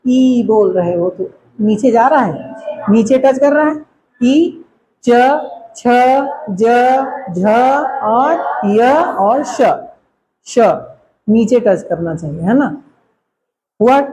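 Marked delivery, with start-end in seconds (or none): 5.0-9.6 च, छ, ज, झ, य, श sounded separately and slowly from the palate; clear letter demo. Shown as a demonstration. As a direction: drill च, छ, ज, झ, य, श one at a time. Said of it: "अब इनको बोल के देखो".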